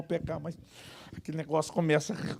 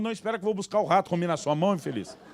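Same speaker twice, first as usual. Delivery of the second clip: snappy retort; 2 semitones higher, faster than usual. Acted. Lunga's rude reply.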